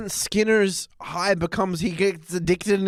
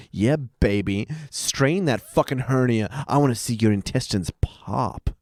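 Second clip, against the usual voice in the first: low mock taunting voice; 4 semitones lower than usual. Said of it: "he's like".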